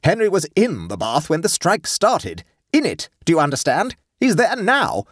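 high, emphatic, driving each phrase home; fearful intensity. A narrator's reading. Wife explaining husband's trapped in bath, fearful intensity. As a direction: insist with dreadful urgency. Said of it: "speaking with fearful intensity".

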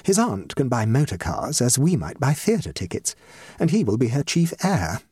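measured, stately hostess voice; slow and impressive. A narrator's reading. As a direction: state your case like a minister addressing parliament. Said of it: "she spoke slowly and impressively, with the air of a minister".

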